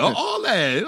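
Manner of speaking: loud exclamation. Real, not acted. Laughing exclamation.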